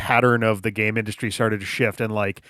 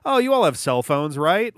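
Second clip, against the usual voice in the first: mock snarky question, pitched up; attempted snark; 5 semitones higher than usual. Presenter snarking at people who are not happy, imitated. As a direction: imitate a tone-deaf quip, higher on the tag question. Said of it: "attempt at snarking at people".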